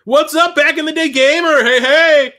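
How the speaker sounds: high, loud excited shout-out; hype greeting. Real, not acted. Streamer hyping a viewer, high loud greeting. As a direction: pump up the chat.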